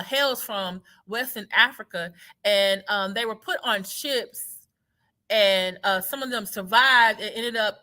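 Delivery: mock-polite, overly detailed recital; sarcastic. Sarcastically reciting her family history to a nosy questioner, mock-polite. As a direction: lay it on thick, deadpan sarcasm. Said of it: "I would have been totally sarcastic".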